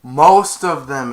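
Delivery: loud, slow admission; mock-guilty afterthought; sheepish correction. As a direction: confess the catch with a grin. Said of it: "And then he went".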